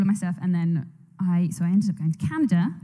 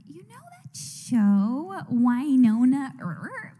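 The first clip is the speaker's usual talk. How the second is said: manager on the phone; 4 semitones higher, much slower than usual. Retold or imitated. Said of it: "my manager who was like".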